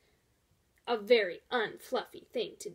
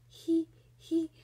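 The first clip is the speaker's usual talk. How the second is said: a hint of giggling, slightly higher; 3 semitones higher than usual. Rhinoceros too shy to say its name, giggling. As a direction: giggle through the words. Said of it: "giggled the rhinoceros".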